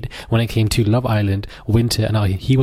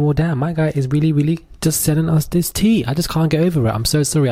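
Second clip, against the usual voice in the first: excited inner voice; 6 semitones higher than usual. Retold or imitated. Inner reaction to tea spilled.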